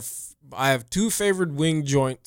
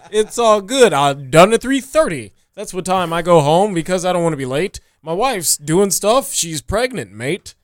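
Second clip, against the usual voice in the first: Todd voice; 5 semitones higher, 4 dB louder than usual. Acted. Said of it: "I'm Todd".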